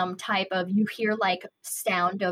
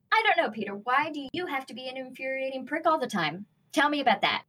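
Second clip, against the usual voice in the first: higher-pitched acted comeback; heated argument; 5 semitones higher, faster than usual. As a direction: throw the accusation back, playing a heated quarrel. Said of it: "This argument is getting very, very heated".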